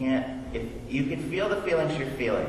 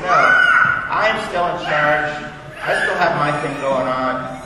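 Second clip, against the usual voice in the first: put-on louder, slow, half-laughing child's claim of control; mock defiant child; 2 semitones higher, 6 dB louder, slower than usual. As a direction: ham up a kid insisting he's still in charge, slowly. Imitating son asserting control.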